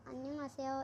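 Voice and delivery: teacher models अन्यांग आसेयो for students; Korean greeting demo. Shown as a demonstration. Teacher shows students a Korean greeting, clear and careful. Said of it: "इस तरीके से बोलती हूँ मैं आपसे".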